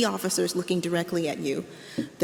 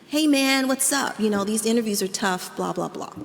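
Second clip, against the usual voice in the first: a hint of an applicant code-switching to sound cool; put-on blackened speech; 2 semitones higher than usual. Applicant greeting Michael in a lightly put-on blackened voice. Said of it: "he's sort of blackening the way that he's talking".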